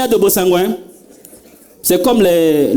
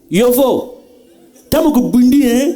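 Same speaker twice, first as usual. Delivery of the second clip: put-on mother's Banda accent; 2 semitones higher than usual. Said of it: "Elle voulait dire en sango".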